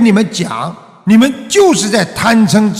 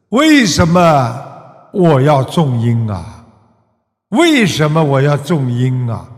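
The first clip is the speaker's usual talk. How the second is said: slow rhetorical twist; 4 semitones lower than usual. Shown as a demonstration. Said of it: "师父给你们加几个字".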